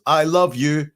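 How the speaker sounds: half-acted cry of love; mock cry. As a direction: blurt it out. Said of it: "And he says".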